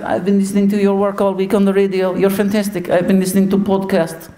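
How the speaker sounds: put-on high, enthusiastic accented manager; put-on Portuguese voice, admiring; Jose Mourinho. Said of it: "and he went".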